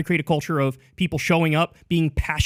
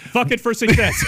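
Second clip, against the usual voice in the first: loud hammed-up announcer shout; mock shouted slogan; 6 semitones higher, 4 dB louder than usual. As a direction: yell it like a parody motivational speaker. Mocking the accented slogan.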